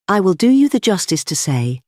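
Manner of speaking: emphatic, half-admiring verdict; brutal admiration. A narrator's reading. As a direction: concede it with rough admiration. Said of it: "not without a sort of brutal admiration".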